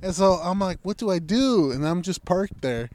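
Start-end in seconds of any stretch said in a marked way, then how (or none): 0.8-1.7 higher-pitched retold panic; a helpless mock-panicked question; freaking out. Driver parked at the prison, unsure, freaking out. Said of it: "I'm freaking out at this point".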